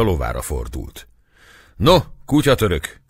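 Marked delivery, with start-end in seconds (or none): 1.8-3.0 much higher, louder shout; ringing shout. A narrator's reading. Gáspár bursting out at the captive Turk, loud shout. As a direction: roar at the Turk. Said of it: "harsant fel Kocsis Gáspár".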